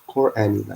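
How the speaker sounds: "Qur'ani" with the stress on the end. Shown as a demonstration. Explaining what the singer really says, Qur'ani. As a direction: say "Qur'ani" drawing out the last syllable. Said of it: "he says".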